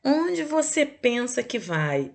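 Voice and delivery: slow, stern mock mother; a hint of a scolding mother; imitating mom. Teacher mimicking a mother questioning her child, mildly stern. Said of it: "que lembrou da mamãe".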